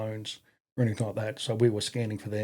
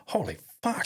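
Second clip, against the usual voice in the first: stunned holy fuck; 7 semitones higher, 5 dB quieter than usual. Retold or imitated. Watching the RSMs brawl.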